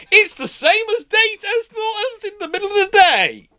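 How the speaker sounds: high, gleeful mock self-quote; giddy high voice. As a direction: squeal it like a thrilled kid. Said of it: "And I'm just going".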